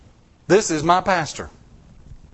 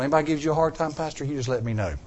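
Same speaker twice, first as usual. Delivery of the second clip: softer, low tough-guy aside; a mock Navy seal promise, hushed; 4 semitones lower, 6 dB quieter, faster than usual. Tough-guy boast to pastor.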